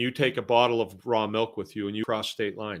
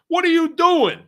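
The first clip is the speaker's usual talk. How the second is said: even higher, louder cop yell breaking into a laugh; mock cop, laughing; 8 dB louder than usual. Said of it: "The cop be like".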